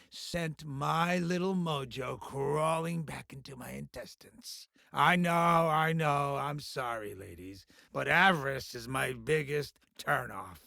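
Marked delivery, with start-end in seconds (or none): 4.9-7.6 soft apology. Acted. Boss apologising to the ladies beside him, soft and low.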